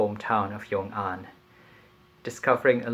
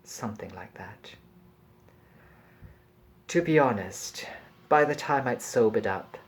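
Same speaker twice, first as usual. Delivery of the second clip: measured literary reading voice; story narration. A narrator's reading. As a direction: read it like an audiobook, unhurried. Reads novel passage aloud.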